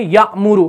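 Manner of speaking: यामुरु with the hamza sakin stopped in the throat; यामुरु with a short catch on the hamza; correct reading. Shown as a demonstration. Teacher gives the right reading, यामुरु. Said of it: "हम क्या पढ़ते हैं?".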